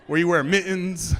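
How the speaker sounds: loud punchline shout. Acted.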